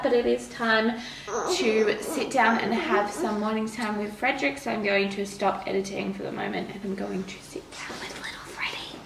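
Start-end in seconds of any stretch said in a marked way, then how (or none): 4.6-9.0 whispering. Real, not acted. Baby asleep nearby, hushed.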